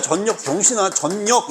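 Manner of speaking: 전력 pitched high, as "jeon-nyeok"; jeonnyeok pronunciation. Shown as a demonstration. Teacher mock-berating over a reading, 전력 as high "jeon-nyeok". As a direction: hammer 전력 with a double n, high. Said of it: "이렇게 읽는 거야".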